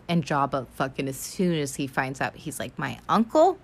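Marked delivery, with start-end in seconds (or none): 2.8-3.6 pissed. Acted. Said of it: "He's pissed".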